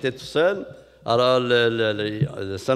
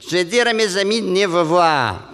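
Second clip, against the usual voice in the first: Montréal lady; 5 semitones higher, 4 dB louder than usual. Retold or imitated. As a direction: promise it with a laugh. Lady thanks, gushing.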